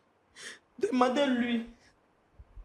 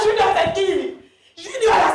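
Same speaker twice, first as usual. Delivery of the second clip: higher pitch, asking through a bitter laugh; 3 semitones higher, slower than usual. Real, not acted. Wife confronting her husband, bitter scornful laughter. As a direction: laugh scornfully while demanding an answer.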